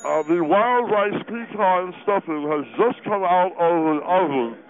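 talking with mouth full; words around a mouthful. Acted. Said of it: "impolite to talk with your mouth full".

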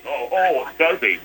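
soft, grudging mumble; reluctant. Acted. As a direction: sound put out and unwilling. Steve reluctant to talk.

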